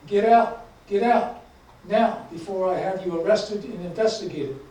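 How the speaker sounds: acted angry shout, easing off after the opening bursts; officer's shout. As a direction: shout the first commands, then ease into a firm threat. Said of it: "the officer shouted".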